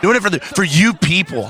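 hammed-up wrestling promo. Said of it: "I'm cutting a you people promo".

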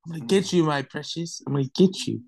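lightly voiced faint old crone, fading; old grandma voice. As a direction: tease like a creaky old hag. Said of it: "Why you sound like that old grandma from what's that movie".

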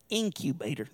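stretched southern "Incubator"; southern drawl. Shown as a demonstration. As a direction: draw out "Incubator" in a southern accent. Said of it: "That's a good southern drawl".

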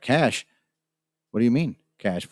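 mildly incredulous questioning, pitch lifted on the first word; retold disbelief. Traveller questioning the man's demand for cash, mildly incredulous. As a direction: echo the demand as a baffled question.

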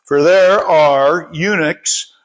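measured, deliberate read-aloud with emphasised words; scripture reading. Real, not acted. Preacher reads the parable to the congregation, measured scripture reading. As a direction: read the passage out clearly, phrase by phrase.

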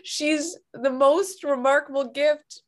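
real tearful crying while speaking; ugly crying. Real, not acted. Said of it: "I'm ugly crying".

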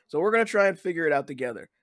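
blocked nose, congested voice; stuffy nose. Real, not acted. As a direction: talk through a stuffy nose. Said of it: "sound a little stuffy today".

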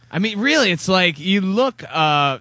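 usual speaking voice

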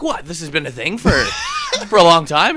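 incredulous shout. Retold or imitated. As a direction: yell it like it's old news. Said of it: "He's like".

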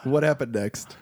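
hushed eager question; whisper. Real, not acted. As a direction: lean in and whisper.

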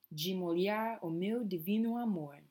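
"De" said like "dji", Rio style; de with a j sound. Shown as a demonstration. Teacher models "De" as "dji" for the class. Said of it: "the D has a bit of a j sound".

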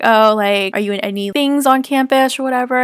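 lifted, chatty small-talk voice; friendly, happy. Retold or imitated. Tech assistant making small talk during extraction, friendly and happy. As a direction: imitate a cheerful assistant chatting. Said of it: "so friendly and happy at nine A M".

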